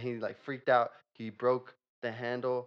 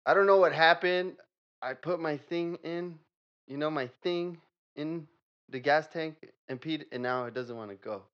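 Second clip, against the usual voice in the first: high silly customer voice; 4 semitones higher, 6 dB louder than usual. Acted. Improv customer at mechanic.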